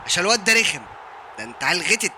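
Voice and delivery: loud taunt. Real, not acted. Insulting opponent after goal.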